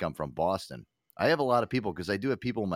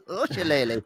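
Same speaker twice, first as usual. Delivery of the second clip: mock Irish; 6 semitones higher than usual. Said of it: "sounds like Lucky Charms".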